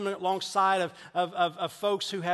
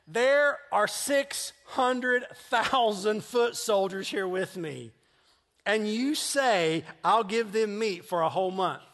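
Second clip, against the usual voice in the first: incredulous Moses, louder and slow, laughing; Moses protesting; 5 semitones higher, 6 dB louder, slower than usual. Acted. Moses protesting to the Lord about feeding the soldiers, incredulous. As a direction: drag it out in disbelief at God's promise. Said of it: "But Moses responded to the Lord. He said".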